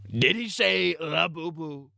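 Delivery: put-on frail old man in a Trump voice; decrepit old Trump. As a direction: ask like a dying old man doing Trump. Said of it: "saying it in Trump's voice".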